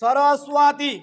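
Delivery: সরস্বতী spaced out as sa-ra-su-a-ti; Sanskrit pronunciation demo. Shown as a demonstration. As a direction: model সরস্বতী carefully with a crisp s. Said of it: "চর মতো উচ্চারণ হচ্ছে".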